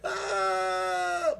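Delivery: sharp loud falling-off-a-cliff scream; acted scream of a man falling; retold scream. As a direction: cry out "Ah!" loud and high in terror. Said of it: "sigaw po siya na sigaw".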